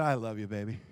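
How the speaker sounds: soft, low and tender; calm loving reply. Retold or imitated. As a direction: disarm an angry wife with gentle affection. Calm answer to exasperated wife.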